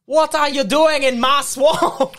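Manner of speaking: high, loud-edged slow Scottish ogre; Shrek. Acted. Trying out the requested impression, Shrek voice. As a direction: bellow slowly like an indignant ogre. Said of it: "Just do your best Shrek".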